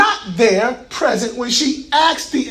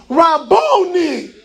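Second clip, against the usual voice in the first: reverent, drawn-out Rabboni; 4 semitones higher, much slower than usual. Retold or imitated. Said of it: "She says to him".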